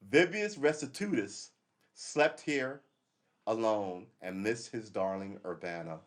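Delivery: slow, grand proclamation of an ancient inscription; announcing a Roman soldier's boast; slow formal reading. Shown as a demonstration. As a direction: read it out like a carved epitaph. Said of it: "reading inscription".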